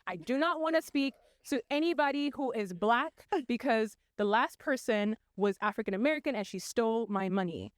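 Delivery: mock indignant demand, each word spaced out; retold customer complaint with measured insistence; upset caller. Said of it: "she's really upset".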